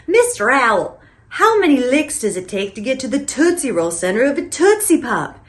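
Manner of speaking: lightly voiced little kid; little kid impression. Host mimicking the commercial kid asking Mister Owl, lightly childlike. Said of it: "exactly the way the little kid would say".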